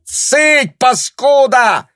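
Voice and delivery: very high, loud slur; furious shout. A narrator's reading. Woman yells at Tanya, furious. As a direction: snarl the insult. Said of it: "крикнула та".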